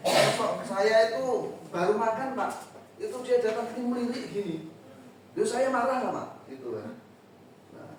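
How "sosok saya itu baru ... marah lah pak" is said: pupil's excuse. Retold or imitated. Boy explaining to the teacher why he hit, indignant and high. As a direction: play the boy defending himself, higher and aggrieved. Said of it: "Itu, ya".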